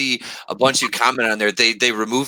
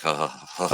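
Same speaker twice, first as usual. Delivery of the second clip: mock swooning breaths; 6 semitones lower, 5 dB quieter than usual. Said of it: "I was like".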